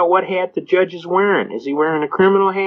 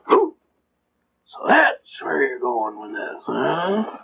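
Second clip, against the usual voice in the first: caught-out judge; 2 semitones lower, 4 dB quieter, slower than usual. Retold or imitated. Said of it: "The judge did a Homer Simpson".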